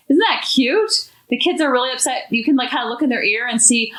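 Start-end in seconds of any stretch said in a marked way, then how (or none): 0.1-1.1 gushing. Real, not acted. Gushing over a comment.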